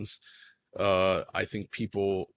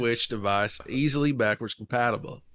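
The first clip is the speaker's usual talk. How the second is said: put-on Southern reading voice; Southern accent; 3 semitones higher, 4 dB louder than usual. Reading the listener's question on request, mock Southern accent. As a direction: read it aloud in a playful Southern accent. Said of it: "You want me to read it like that".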